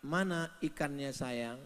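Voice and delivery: soft, sweet question to husband; gentle wife. Retold or imitated. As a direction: coax him tenderly. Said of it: "Ibu tinggal bilang". (istri bertanya lembut)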